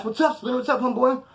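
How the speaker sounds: high-pitched casual hail; upbeat greeting. Retold or imitated. Homeboy pulling up with cash, upbeat greeting. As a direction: imitate a friend calling hello, voice lifted. Homie greeting him from car.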